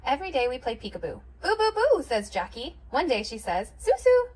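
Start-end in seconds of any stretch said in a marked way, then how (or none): 1.4-2.0 put-on high, louder baby boos; toddler peekaboo. A narrator's reading. Toddler playing peekaboo with sister, high and bright. 3.8-4.3 put-on high, louder baby voice calling; toddler's first word. A narrator's reading. Toddler saying her sister's name, high baby voice.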